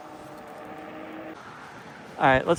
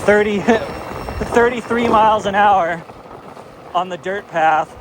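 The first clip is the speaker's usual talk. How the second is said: excited; 5 semitones higher than usual. Real, not acted. Hitting top speed on dirt.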